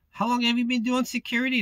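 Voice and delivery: high, quick incredulous question; mildly shocked. Retold or imitated. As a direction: ask it fast, as if taken aback. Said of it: "him being kinda shocked".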